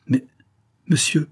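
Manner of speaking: abrupt, indignant interjection; sudden exclamation. A narrator's reading. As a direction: cry out in sudden objection. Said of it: "s'écria-t-elle tout à coup".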